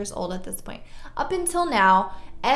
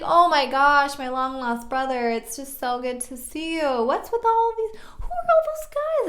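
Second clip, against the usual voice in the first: high, loud, gushing imitation of crying; mock tearful; 4 semitones higher, 4 dB louder than usual. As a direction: gush like an overcome brother, climbing higher. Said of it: "So he starts crying".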